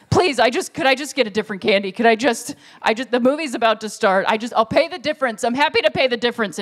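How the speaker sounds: stammering, rushed begging; lightly hammed-up desperation; mock-frantic pleading. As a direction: keep restarting, hurrying to get the plea out. Retold customer begging for different candy.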